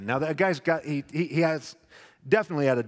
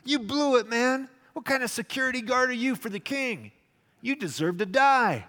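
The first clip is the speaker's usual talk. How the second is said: high, loud taunting yell; yelling at Abner; 9 semitones higher, 4 dB louder than usual. Retold or imitated. David yelling across the valley at sleeping Abner. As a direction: shout across the valley to wake him. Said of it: "he's yelling at Abner".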